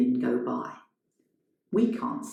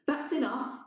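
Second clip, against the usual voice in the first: high, quieter, firm stop; a hint of a stern intruder; stern newcomer; 9 semitones higher, 4 dB quieter than usual. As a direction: shut him down. Newcomer stops Adam.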